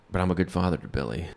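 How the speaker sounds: soft, low, humble plea; kinda eloquent. Retold or imitated. Earnest father testifying at his custody hearing, quietly eloquent. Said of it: "he gets really kinda eloquent".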